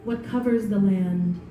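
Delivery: slow, measured poem recital with long pauses; poetry reading. Acted. Poet reading her new poem to a live audience, measured poetry reading. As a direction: let each phrase stand alone, unhurried.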